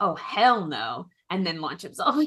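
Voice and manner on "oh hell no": half-muttered under the breath, but carrying and fully audible. Voicing a character who overhears and mutters before attacking: muttered under breath, not quietly. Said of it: "under his breath, but not, like, all that quietly".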